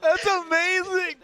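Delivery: slow, high, amazed drawl. Real, not acted. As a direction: stretch it out in awe. Awed reaction to video.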